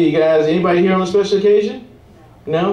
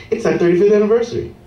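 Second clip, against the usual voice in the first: fast, higher, insistent repeat; pushy guest; 5 semitones higher, faster than usual. Retold or imitated. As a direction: keep pushing the anniversary.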